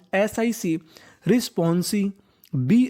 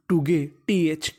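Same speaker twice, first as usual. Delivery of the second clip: slow syllable build-up; 3 semitones lower, slower than usual. Shown as a demonstration. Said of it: "टीएच को पढ़ते हैं दा".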